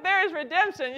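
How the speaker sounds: "there is redemption" restated high and loud, landing with a fall; excited affirmation. Real, not acted. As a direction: close the rallying cry firmly. Rallying non-cooks.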